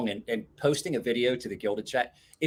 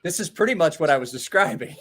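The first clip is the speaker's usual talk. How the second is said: laughing; 5 semitones higher than usual. Real, not acted. Laughing outburst at friend's joke.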